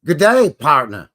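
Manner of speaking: a loud, hammed-up cowboy "good day, partner"; mock cowboy drawl. Host greeting a viewer in a cheesy cowboy voice. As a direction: put on a cheesy western greeting. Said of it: "That sounds awful".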